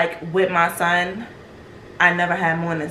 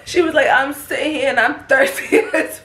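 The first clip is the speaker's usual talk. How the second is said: high-pitched retelling breaking into a laugh; barely holding back laughter; 7 semitones higher than usual. Real, not acted. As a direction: push through the quote, then lose it. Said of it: "I'm sorry that I keep laughing".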